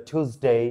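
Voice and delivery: "টিউসডে" as "t-hooz-day"; aspirated T, plain "oo" in "টিউসডে"; accepted variant. Shown as a demonstration. Teacher offering alternatives, "টিউসডে" pronounced "thooz-day". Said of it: "এটা টিউসডে অনেকে বলে".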